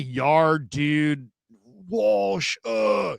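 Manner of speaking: a lighter hint of the boyish dude voice; quick replay of the surfer-dude whine; young slacker dude. Host re-quoting the rookie QB, lightly voiced slacker dude. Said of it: "he sounded so young".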